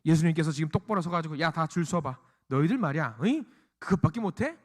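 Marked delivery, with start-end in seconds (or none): 1.4-4.6 drill-master lining up the group; mock scolding. Imagined Jesus lining up disciples, mock scolding. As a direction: needle them with sharp questioning grunts. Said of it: "막 혼내시는 것처럼".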